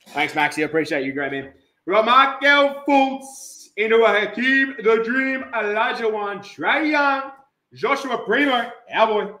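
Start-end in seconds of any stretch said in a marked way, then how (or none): 1.8-9.3 lively roll-call of names; raised card-break call; hype announcer. Acted. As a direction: reel off players like an announcer.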